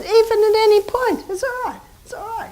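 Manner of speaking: high, softening reassurance; reassuring. Retold or imitated. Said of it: "I said".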